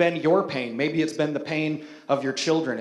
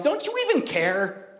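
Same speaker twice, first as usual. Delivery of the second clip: higher exasperated questions to God; exasperated plea to God; 5 semitones higher than usual. Retold or imitated. Worshipper throwing hands up at God, higher exasperated plea. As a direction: plead with heaven, arms flung up. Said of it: "threw your hands up in the air and you're like".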